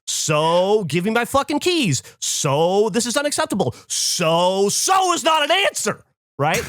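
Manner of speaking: slow, heated retold rant that peaks in a shout; venting at the bank staff, building to a yell; mock furious rant. Ranting at the bank staff, building to a mock yell.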